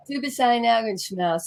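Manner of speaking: put-on softly quoted German compliment in a Southern accent. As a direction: retell the German line with a Southern American accent. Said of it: "that's with my Southern accent".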